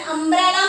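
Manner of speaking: अम्ब्रेला opening on short "uh"; correct pronunciation. Shown as a demonstration. Teacher correcting a likely confusion, अम्ब्रेला with "uh". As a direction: say अम्ब्रेला as "UM-brella". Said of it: "correct word is अम्ब्रेला".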